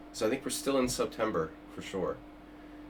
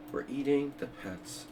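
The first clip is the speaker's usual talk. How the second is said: Trump imitation; 2 semitones higher, 6 dB quieter than usual. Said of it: "you gotta have, you know, Trump's accent".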